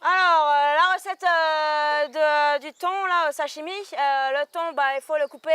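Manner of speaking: lightly voiced market vendor touting her wares; a hint of a stallholder hawking fish; market stall seller. Game card: answer like a market vendor, lightly hawking. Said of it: "Comme une marchande à son étal".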